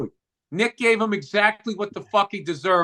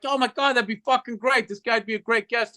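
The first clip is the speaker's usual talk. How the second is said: eager; 4 semitones higher than usual. Retold or imitated. Retells eager reply to podcast request.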